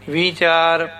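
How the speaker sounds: ਵਿਚਾਰ with a long ee in the first syllable; long i sound. Shown as a demonstration. Teacher showing the long ee in ਵਿਚਾਰ. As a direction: stretch the vowel of ਵਿ in ਵਿਚਾਰ. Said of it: "double E ਦੀ sound ਦੇਣੀ".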